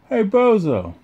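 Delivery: put-on mean kid taunt. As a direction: sneer it like a nasty kid. Sid taunts from the controls.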